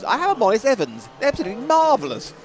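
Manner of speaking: put-on old-timey 1930s toff; hammy vintage motoring gent; 1930s cartoon voice. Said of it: "Can you not do the nineteen thirties voice then?".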